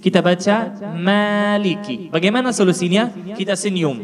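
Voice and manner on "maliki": MALIKI with a light, fronted "ma" and long a; thin, light vowel. Shown as a demonstration. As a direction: say maliki thinly, lips spread in a smile. (maliki dibaca tipis)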